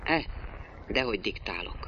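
curt. A narrator's reading. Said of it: "Szolnesz kurtán".

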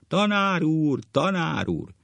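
high schoolboy call; acted high, loud pupil's plea; yelling. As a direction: shout for the teacher's attention. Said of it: "Ordít".

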